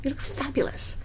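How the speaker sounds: starstruck. Retold or imitated. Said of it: "And I was like".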